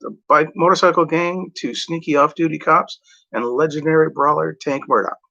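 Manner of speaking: upbeat promo-style reading of a film summary; blurb read. Acted. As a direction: read it like a video box blurb. Reads a movie blurb.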